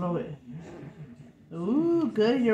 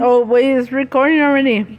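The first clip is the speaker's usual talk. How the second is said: surprised; 3 semitones higher, 13 dB louder than usual. Real, not acted. Surprised camera is recording.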